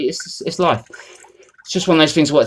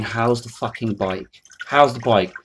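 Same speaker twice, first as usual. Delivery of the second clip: quiet disgusted repeat; 3 semitones lower, 5 dB quieter, slower than usual. Retold or imitated. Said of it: "my brother's saying".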